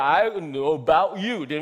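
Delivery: "I know about you" in an African American accent, the D of "don't" dropped. Shown as a demonstration. Preacher showing the congregation the dropped syllable, African American accent. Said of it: "那个D都没有".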